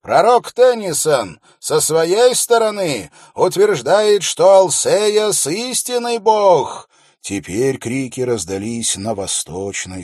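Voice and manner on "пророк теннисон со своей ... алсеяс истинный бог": loud, high proclamation to the crowd; confident royal steward. A narrator's reading. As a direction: read the decree out with confidence. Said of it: "но он звучал достаточно уверенно".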